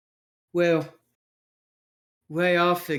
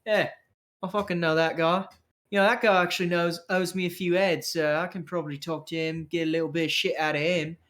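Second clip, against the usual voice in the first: chatty schemer, quickening as he goes; street rogue character; 2 semitones higher, faster than usual. Acted. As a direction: mull over a useful contact, cockily. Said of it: "where he's like".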